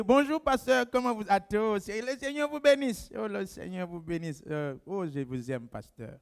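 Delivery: syrupy, fading greeting to the pastor, mocking; mock sweet flattery. Pastor mocking a flattering churchgoer, sugary and fading. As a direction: ham up a fawning churchgoer's blessing.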